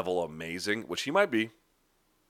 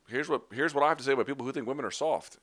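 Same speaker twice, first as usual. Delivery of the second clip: imitating her; 6 semitones higher, faster than usual. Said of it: "and was like".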